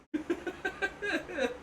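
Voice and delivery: high bleating goat laugh. Real, not acted. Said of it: "his mighty fine impression of a bull goat".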